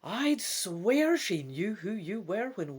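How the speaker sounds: slow, wary, lightly voiced elf; suspicious elf. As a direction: murmur your suspicion to your friend. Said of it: "the elf says suspiciously".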